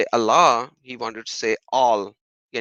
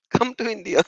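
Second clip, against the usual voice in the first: higher, half-laughing mock threat; mock menacing troll; 8 semitones higher than usual. Vlogger mocks troll's threat through laughter. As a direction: poke fun at the troll's threat. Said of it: "He was threatening".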